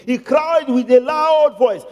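LOUD drawn out slowly; slow emphatic stretch on "loud". Shown as a demonstration. Preacher tells how Jesus did it, drawn-out LOUD. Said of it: "that was how Jesus did it".

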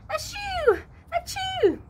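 two big high squeaky sneezes. Acted. Little wallaby catching a chill, sneezing twice.

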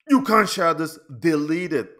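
urgent command to a friend; urgent warning. Retold or imitated. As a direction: insist he delete it.

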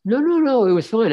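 high, loud, hurried denial; emphatic protest. Real, not acted. Cartoonist defending his old magazine job from teasing, in emphatic protest. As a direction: jump in to put them right.

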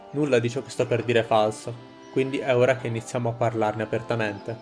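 steady orator addressing a crowd; rousing speech. Acted. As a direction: speak to the villagers like a rebel leader. Reads a rebel's speech to villagers.

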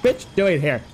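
lightly voiced outraged Five Pebbles; imagined Five Pebbles. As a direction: play the annoyed overseer catching an intruder. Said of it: "Would he be like".

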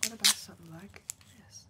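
forceful stage whisper; loud whisper. Acted. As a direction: push lots of breath, still no voice. Whispered roleplay throughout.

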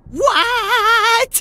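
a high, startled "What?" as the stunned crowd; mock confused what. Imitating stunned enemies, high startled what. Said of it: "they'll all be like".

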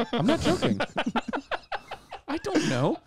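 high laughing protest; laughing at his own gaffe. Real, not acted. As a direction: giggle through the denial.

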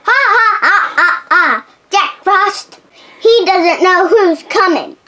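gloating cackle, ha ha ha; evil laugh. Acted. Elsa cackling at Jack Frost as her trap springs. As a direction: cackle like a villain who won.

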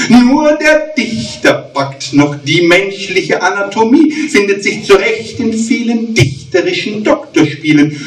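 rhythmic cabaret verse reading; mock-solemn poetry reading; poem recital. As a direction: recite the verse with comic timing.

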